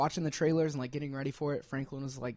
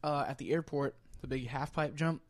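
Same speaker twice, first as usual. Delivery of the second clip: talking while eating; words round a mouthful of bisque; mouth full; 4 dB louder than usual. Real, not acted. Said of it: "Sorry, I'm eating a cup of honey butter chicken bisque".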